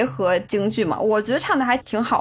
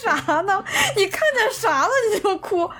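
incredulous; 9 semitones higher than usual. Retold or imitated. 模仿朋友不解地质问.

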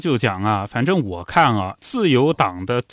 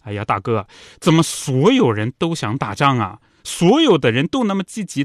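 mock-indignant protest, rising in pitch; lightly acted exasperated complaint; indignant retelling; 4 semitones higher than usual. Sister protests to brother that everyone wants war, mildly indignant. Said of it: "莫代就气愤地说啊".

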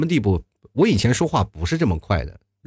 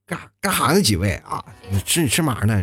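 put-on old Beijing accent. Shown as a demonstration. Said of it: "就是那个调儿啊".

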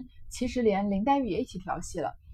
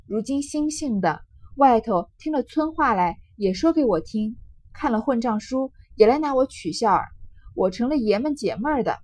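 crying complaint; 5 dB louder than usual. Acted. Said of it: "黛玉便哭道".

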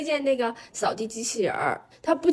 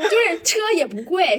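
put-on Taiwanese accent; 7 semitones higher, 4 dB louder than usual. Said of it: "你配上台湾腔讲这一段".

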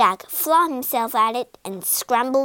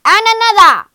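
bigger, higher roaring shout; growled demand; 9 semitones higher, 15 dB louder, faster than usual. A narrator's reading. Giant greedy for still more eggs, escalating roar. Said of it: "growled the giant".

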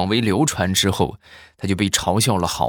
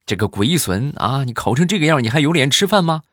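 mock angry scolding; 7 semitones higher than usual. Father scolding his son over the report card, mock angry. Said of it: "气坏了，非常生气".

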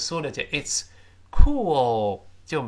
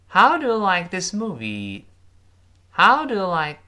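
louder, higher teacher model of the phrase; model reading; 5 semitones higher, 6 dB louder than usual. Shown as a demonstration. Teacher leading the class, reading each word loud and clear. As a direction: read it out clearly for the class to repeat. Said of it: "跟老师读一遍这句话".

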